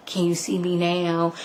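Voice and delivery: hushed, gentle-volume quote; soft retold reply. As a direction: act out a quiet reveal. Retells Jen's soft reply.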